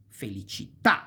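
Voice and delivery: felicità with the weight on the final tà; stress on last syllable. Shown as a demonstration. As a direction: save the punch for the tà of felicità. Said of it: "accent goes on the last syllable".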